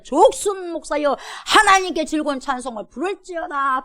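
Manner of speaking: building from a lifted reading to a ringing shout; rising proclamation. Acted. Preacher proclaims psalm, rising. (점점 높아지며 외치듯 선포)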